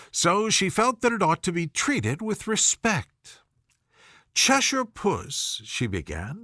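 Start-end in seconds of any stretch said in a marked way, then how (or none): 4.3-5.6 timid. A narrator's reading. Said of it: "rather timidly".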